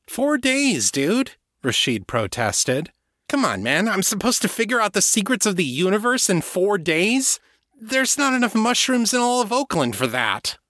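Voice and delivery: put-on high, excited young guy's voice. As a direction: blurt it out, amazed. Voicing Rashid.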